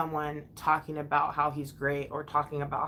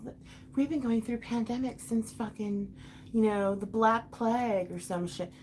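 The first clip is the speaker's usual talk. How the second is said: higher, dismissive imitation; mocking quote; 4 semitones higher than usual. Fed-up mom imitating therapists' pandemic line, mocking. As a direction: parrot them with irritation.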